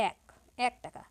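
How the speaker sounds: এক said as "æk"; æ vowel demo. Shown as a demonstration. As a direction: open the এ of এক to the vowel of "cat". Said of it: "আমরা বলি".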